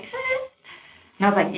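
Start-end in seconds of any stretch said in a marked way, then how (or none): 0.0-0.4 very high, soft imitating grunt; a tiny high dismissive noise; mock shrug sound. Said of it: "and she was like".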